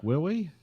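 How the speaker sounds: REALLY said as "wewwy", R's as W's; rounded R's. Retold or imitated. Imitating guys who round R's, W-like R's. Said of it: "guys who round their R's".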